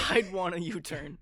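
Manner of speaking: laughing through the words. Real, not acted. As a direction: say it while cracking up. Laughing at own joke.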